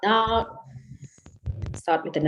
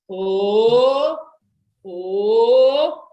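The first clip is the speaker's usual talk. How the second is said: playful oh oh; 4 dB louder than usual. Shown as a demonstration. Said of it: "And we go".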